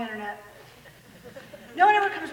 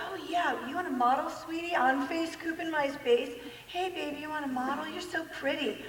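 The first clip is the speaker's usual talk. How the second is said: sleazy recruiter; 2 semitones higher, 5 dB quieter than usual. Retold or imitated. Voicing a recruiter luring girls.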